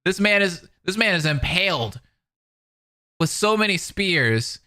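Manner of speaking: real amused incredulity; incredulous aside. Real, not acted. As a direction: marvel at how absurd it is.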